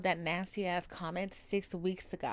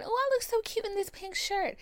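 mock cutesy self-admiration; 12 semitones higher than usual. Mock self-admiring inner thought.

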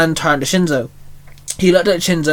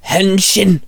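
transformation call; 4 semitones higher than usual. Acted. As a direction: shout it to transform. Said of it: "Shinzo called out".

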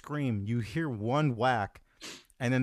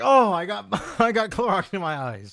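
much higher, louder, laughing through it; mock amazed; 9 semitones higher, 7 dB louder than usual. Joking impression of a singer gushing about his cure, high and laughing. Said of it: "He was like".

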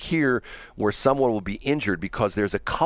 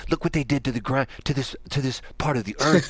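environmentalist voice; 6 semitones higher than usual. Retold or imitated. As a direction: play an indignant environmentalist. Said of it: "Your environmentalist voice".

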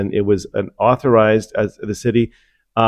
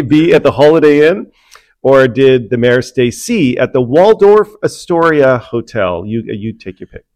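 game show host; slower than usual. Acted. Hosts a mock game show.

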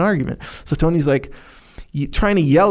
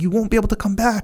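friendly warning; 6 semitones higher than usual. Retold or imitated. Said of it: "He's like".

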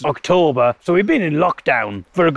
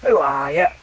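Cockney bird. Retold or imitated. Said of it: "a Cockney".

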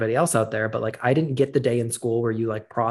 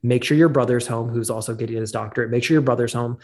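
frantic urgency. Retold or imitated. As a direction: press each instruction on the listener. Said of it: "he's frantic".

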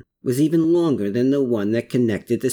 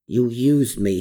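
growl; 3 semitones lower than usual. Acted. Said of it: "he growled".

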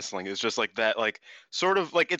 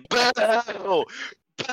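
high, loud heckling boo; mock booing; 11 semitones higher, 4 dB louder than usual. Wrestler heckling the colleague who slipped up, mock booing. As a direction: imitate a rival jeering with drawn-out boos. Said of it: "Starlight Kid started booing her".

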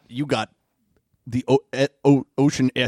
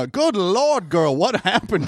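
father's voice; 5 semitones higher, slower than usual. Acted. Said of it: "you just hear him go".

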